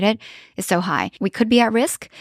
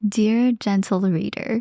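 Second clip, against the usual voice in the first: put-on slow, measured address in own accent; Bridgerton reference; much slower than usual. Co-host echoing dear reader as a joke, Bridgerton style. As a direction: draw it out like a period narrator, unaccented. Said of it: "I made a Bridgerton reference".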